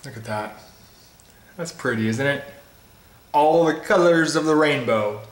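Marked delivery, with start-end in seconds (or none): 3.3-5.2 a faint, joking hint of an Irish accent; mock Irish accent. Reviewer shows viewers the colourful pint, barely-there mock Irish accent. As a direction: lightly put on an Irish lilt for the rainbow line. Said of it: "That's my Irish accent".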